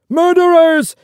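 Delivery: shrieked high and loud; a frantic man lashing out at his rescuers; crazed scream. A narrator's reading. Father fighting off his rescuers in the water, screaming. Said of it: "he cried".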